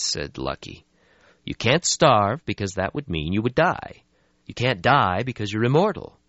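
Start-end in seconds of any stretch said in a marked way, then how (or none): 1.4-6.2 brisk, a bit higher; young vampire voice. Acted. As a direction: brush off the gloom. Lucky voiced in story.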